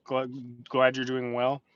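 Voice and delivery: teeth chattering from the cold; shivering. Real, not acted. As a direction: talk while freezing and shaking. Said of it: "I'm freezing, so it's hard for me to talk straight".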